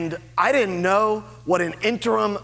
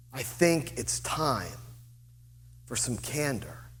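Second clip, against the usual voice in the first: put-on slow old Virginia accent; 6 semitones lower, 9 dB quieter than usual. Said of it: "speaks very slowly in an old Virginia accent".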